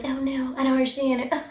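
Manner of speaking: a lightly mocking fake apology; fake innocent. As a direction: play dumb, fake innocent. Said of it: "you wanna be like".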